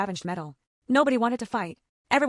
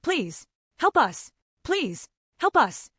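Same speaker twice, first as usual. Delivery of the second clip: slow, higher-pitched gentle plea; 6 semitones higher, much slower than usual. A narrator's reading. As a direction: plead gently, with long pauses between the words. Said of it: "in a gentle voice that sounded almost heartbreakingly human".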